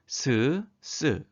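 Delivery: 스 and 쓰 as two separate syllables; consonant demonstration. Shown as a demonstration. Teacher models consonants grouped by strength, 스 and 쓰 sounded out separately. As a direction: sound out 스, then 쓰: plain, then tense. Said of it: "자음들을 발음해 볼까요".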